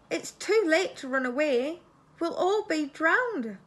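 high, loud, panicky mouse squeak. A narrator's reading. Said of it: "squeaked the mouse".

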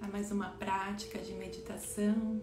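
meditation welcome. Acted. Meditation guide welcoming everyone to the practice, soft and unhurried. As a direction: greet the group gently, leaving space between phrases.

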